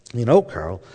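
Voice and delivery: a touch of Dallas twang in a retold quote; Dallas accent. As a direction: imitate a wife's deep Dallas accent. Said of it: "in her deep Dallas accent".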